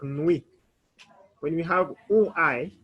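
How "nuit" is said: "nuit" as one syllable, nwee; French pronunciation. Shown as a demonstration. Teacher shows how good night sounds, French pronunciation. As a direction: say "nuit" with UI as WEE, silent T. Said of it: "it will pronounce like".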